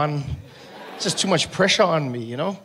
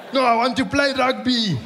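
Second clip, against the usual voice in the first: higher, whining through a laugh; whiny player; 6 semitones higher, 4 dB louder than usual. Retold or imitated. Bleeding player whining that he wants to keep playing. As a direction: sulk like a stubborn kid.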